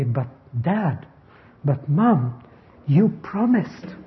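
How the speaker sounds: lightly voiced child holding parents to a promise; slow, drawn-out appeal rising on "promised"; pleading child. Children go to their parents, imitated pleading. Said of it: "children will go to their parents and say".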